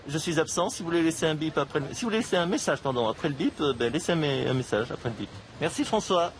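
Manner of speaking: voicemail greeting, fumbled; recorded voicemail message; answering machine message. Acted.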